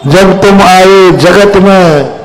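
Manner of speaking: slow, measured verse recitation; verse from the pulpit; recited couplet. Shown as a demonstration. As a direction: chant the couplet slowly like a poem. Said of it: "reciting a verse slowly".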